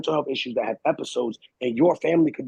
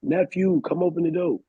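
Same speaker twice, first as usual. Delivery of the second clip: higher-pitched retold call through a house; mock yelling; 3 semitones higher than usual. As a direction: call out for nephew, without full volume. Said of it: "yelling to my son's room".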